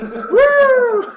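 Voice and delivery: piercing high whoop with laughter; whooping cheer. Real, not acted. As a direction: let out a wild woo. Cheering the money.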